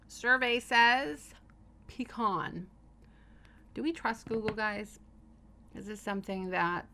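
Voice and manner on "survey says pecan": game show host. Pretend. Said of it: "game-show reveal".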